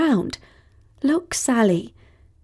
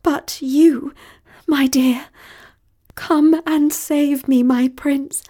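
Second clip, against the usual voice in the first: high, quavering damsel in distress; high-pitched, overwrought pleading; melodramatic plea; 6 semitones higher, 3 dB louder than usual. A narrator's reading. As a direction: beg to be rescued, theatrically. Melodramatic plea for rescue by voicemail.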